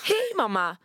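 high, falsetto greeting to mom; nervous falsetto. Retold or imitated. Scared daughter greeting her mother in falsetto. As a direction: fake calm in a scared falsetto. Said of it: "Men jag är falsett för jag är rädd".

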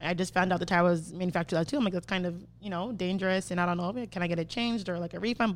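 mildly re-enacted easygoing request; low-key and softening as it goes; calm, casual. Customer politely asking the shop for a tire change, calm. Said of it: "at first I was really calm".

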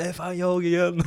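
high, loud mock shout back; imiterat skrik. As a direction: yell back like the shouting man. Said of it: "när de skriker så bara". (härmat skrik tillbaka)

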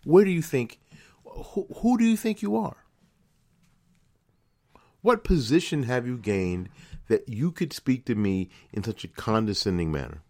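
indignant retort. Pretend. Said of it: "'Cause I want to tell her".

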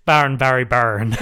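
lightly put-on Northern Irish; Northern Irish accent. Shown as a demonstration. Co-host showing how the name comes out, slightly Northern Irish. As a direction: repeat it with a Northern Irish lilt. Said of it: "comes out a bit Northern Irish".

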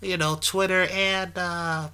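put-on high squeaky child's voice; kid voice. Podcaster stuck in his kid voice after saying Twitter, high and squeaky. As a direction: pitch way up like a little kid. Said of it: "this is my kid voice".

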